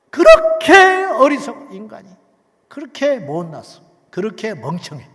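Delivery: loud preaching rebuke. Acted. Preacher rebukes human folly.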